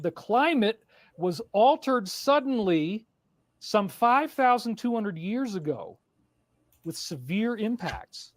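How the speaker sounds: slow dramatic documentary read; dramatic narration. Acted. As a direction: stretch it out for drama.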